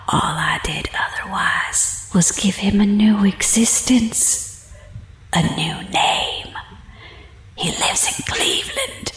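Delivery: breathy whisper right into his ear; menacing whisper, close and intimate. Acted. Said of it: "as she whispered in my ear".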